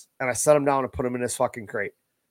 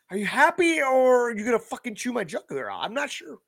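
mock nervous question; 9 semitones higher than usual. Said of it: "You're like".

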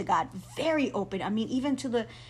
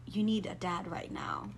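soft, unvoiced whisper; the Holy Spirit whispering comfort; gentle whisper; 2 semitones lower, 3 dB quieter than usual. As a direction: tell her gently, in a hush. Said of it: "what the Holy Spirit said to me".

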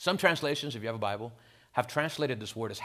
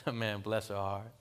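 a weak, half-hearted Southern drawl, slower; poor Southern accent; 3 semitones lower, 4 dB quieter than usual. Retold or imitated. Pastor mimics a Southern lady, in a poor Southern accent. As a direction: lightly fake a Southern accent, a bit slow. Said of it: "imitate really poorly, a little Southern accent".

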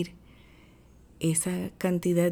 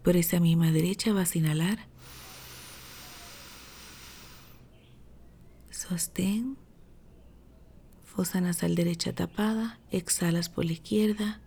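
sleep story narrator; 3 dB quieter than usual. Acted. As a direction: ease them into calm breathing. Leads a breathing meditation.

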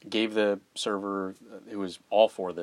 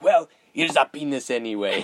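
laughing mock waiter; 5 semitones higher, 8 dB louder than usual. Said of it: "He's like".

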